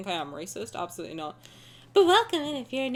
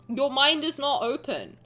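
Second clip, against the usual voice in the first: cult leader; 3 dB louder than usual. Pretend. Cult leader bit scolding chat.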